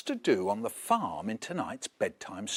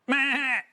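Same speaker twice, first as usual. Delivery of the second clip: high bleating meh; sheep bleat; 10 semitones higher, 3 dB louder than usual. Acted. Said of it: "said the sheep".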